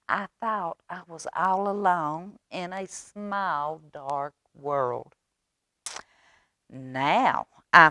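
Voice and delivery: lightly voiced little duck, slow in places; a light duckling voice. Duck wondering about the big bright world, mild duckling voice. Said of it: "And the little duck says".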